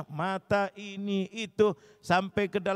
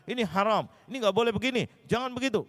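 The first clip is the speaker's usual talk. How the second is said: higher, scolding list of prohibitions; harsh forbidding; 5 semitones higher, faster than usual. Retold or imitated. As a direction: lay down the law bluntly. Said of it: "tidak mengatakan". (larangan keras dengan nada tinggi)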